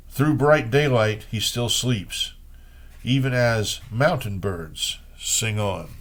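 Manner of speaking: measured, unhurried poetry recital; reading old Chinese poems in translation. Acted. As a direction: let each image land, like reading verse aloud. Reads Wang Wei poems.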